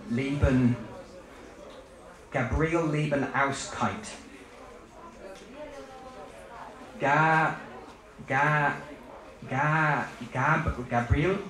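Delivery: halting syllables building into names; sound poetry. Shown as a demonstration. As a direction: break the name into repeated, separated syllables. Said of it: "in the sound poetry tradition".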